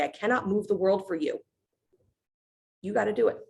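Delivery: high, gentle bargaining god; high ocean god voice. Retold or imitated. Varuna offering compromise.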